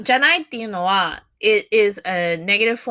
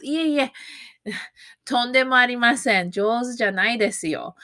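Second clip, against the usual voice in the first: higher, quick humble brush-off; modest denial; 3 semitones higher than usual. Shown as a demonstration. Learner modestly refusing a compliment on drawing, humble. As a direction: politely wave away the praise. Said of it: "You would answer with".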